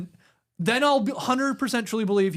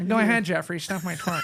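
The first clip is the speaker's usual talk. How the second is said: lightly nasal imitation of Jay, half-hearted; a modest try at Jay's nasal voice; Jay impression. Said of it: "That's my best I can do".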